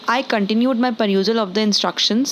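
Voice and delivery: very slow, careful dictation; slow teacher's dictation of an English sentence; slow example read. Shown as a demonstration. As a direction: read each word out slowly for the learner. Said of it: "sentences में मैंने इसको कुछ इस तरीके से इस्तेमाल किया है".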